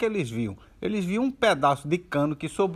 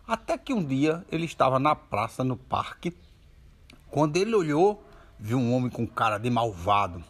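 ordinary delivery

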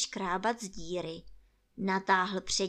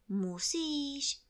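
polite, higher-pitched reply; 7 semitones higher than usual. A narrator's reading. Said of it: "řekl králíček zdvořile".

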